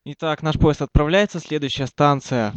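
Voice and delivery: train announcer voice; flight attendant. Acted. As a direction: announce the departure.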